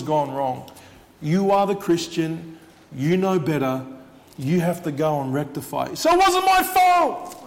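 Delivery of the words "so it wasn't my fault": high, loud, slow protesting shout; mock indignant protest. Preacher mocking a defensive listener: high indignant shout. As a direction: play the offended believer crying foul.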